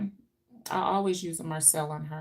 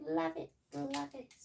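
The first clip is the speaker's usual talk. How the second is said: softer echo; 8 semitones higher, 6 dB quieter than usual. Real, not acted. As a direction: let it fall away under your breath. Trailing repeat.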